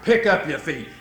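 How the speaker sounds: low, gruff mock growl; imitated growl. Married man as his wife trips, mock growl. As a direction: growl it like a grumpy husband. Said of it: "he growls".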